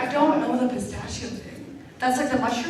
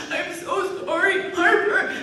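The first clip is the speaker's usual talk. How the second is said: imitating Chris; 5 semitones higher than usual. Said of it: "he's like".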